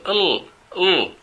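L held with the tongue tip behind the upper teeth; a long clear English L, L; English L sound. Shown as a demonstration. Teacher showing students the L sound, held long. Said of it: "y hacemos el sonido".

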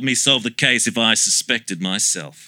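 incredulous laughing shout. Acted.

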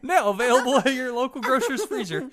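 bright, high announcer pitch; chipper 1950s ad. Pretend. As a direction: sell it like an old TV commercial. Mock ad tagline for joke product.

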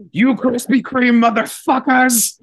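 high, menacing robber voice; robbery threat. Shown as a demonstration. Robbing a Krispy Kreme, high and menacing. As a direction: threaten like you're robbing the store. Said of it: "Sounds like you're robbing a Krispy Kreme".

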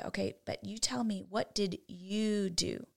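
quiet, slow, steady question; soft and slow. Retold or imitated. Mother quietly pressing her daughter to own it, soft and slow. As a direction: ask it softly and slowly, no anger. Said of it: "I'm going to lower my voice".

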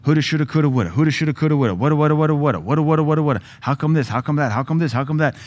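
a lightly voiced chattering worry loop; racing anxious mind. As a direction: rattle it off like a mind that won't stop.

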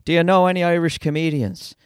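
put-on a touch of lilting Irish accent; lightly imitated Irish lilt; musical Irish sing-song. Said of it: "Musical sing-song voices".

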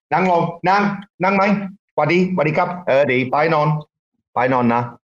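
commands in rough Thai, said firmly to the dog. Shown as a demonstration. Owner giving his guard dog Thai commands, firm and clipped. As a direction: bark out the Thai words at the dog. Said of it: "Say that".

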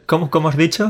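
high, amused mock disbelief; mock surprise. Cohost teasing Roy's English, amused disbelief. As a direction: feign shock at his pronunciation.

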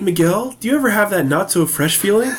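fake commercial voice. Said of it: "Do your fake commercial".

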